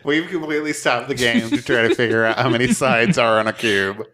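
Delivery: amused, talking through laughter; laughing while talking. Real, not acted. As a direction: get the words out while cracking up. Cracking up over cube confusion.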